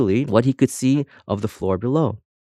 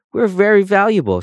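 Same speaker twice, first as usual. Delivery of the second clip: higher, louder shouted boast; 11 semitones higher, 5 dB louder than usual. A narrator's reading. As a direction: shout it up high, proud of her worth. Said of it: "shouted her twin".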